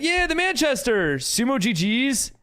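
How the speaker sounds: high, slow, hammed-up try at a Manchester accent; mock Manchester accent. Streamer attempting a Manchester accent for chat, hammed-up Manchester accent. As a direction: put on a Manchester accent badly, slowly and high. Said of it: "Okay, Manchester accent".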